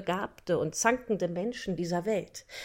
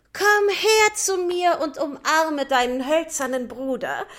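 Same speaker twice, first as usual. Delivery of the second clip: a touch louder, fond invitation; loving call; 6 semitones higher, 5 dB louder than usual. Acted. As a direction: welcome your wooden brother warmly. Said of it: "Nach dieser liebevollen Aufforderung".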